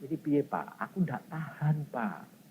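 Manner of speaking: soft, hushed complaint to the pastor; a quiet worried confession; hushed plea. Retold or imitated. Woman confiding to her pastor, hushed and pleading. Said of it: "Nyonyai bilang gini".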